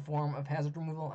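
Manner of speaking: hoarse, strained voice going; losing voice. Real, not acted. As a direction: voice giving out, hoarse. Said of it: "I'm starting to lose my voice".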